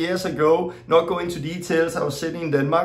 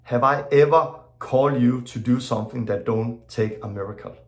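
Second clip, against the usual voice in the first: lower, calm and weighty; voice of God; 7 semitones lower than usual. Retold or imitated. God answers Torben's prayer for money, lower and calm. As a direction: speak lower as God gently rebuking. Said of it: "He said".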